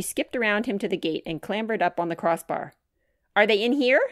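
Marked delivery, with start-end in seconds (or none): 3.3-4.0 put-on eager child.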